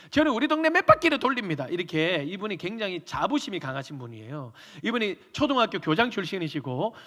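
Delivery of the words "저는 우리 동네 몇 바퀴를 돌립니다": high, loud bragging; puffed-up boast; boastful elder. Retold or imitated. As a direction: brag like a proud old teacher.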